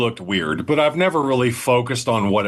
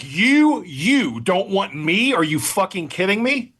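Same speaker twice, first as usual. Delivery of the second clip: much higher, slow, stunned "you don't want me"; shocked disbelief; 6 semitones higher, slower than usual. Retold or imitated. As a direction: act out her shock at being turned down. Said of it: "she's shocked".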